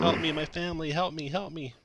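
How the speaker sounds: a mother begging strangers to save her family, frantic; frantic plea for help. Acted. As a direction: beg for help in a panic. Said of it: "she's crying hysterically".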